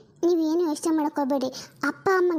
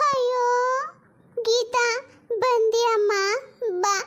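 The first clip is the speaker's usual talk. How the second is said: higher, tearful wail of relief; crying mother-in-law; 4 semitones higher than usual. Acted. Mother-in-law crying to her arriving daughter-in-law, tearful wail. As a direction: sob it out as she welcomes her. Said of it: "ಯಾಕೆ ಹಿಂಗ್ ಅಳ್ತಿದ್ದೀರಾ?".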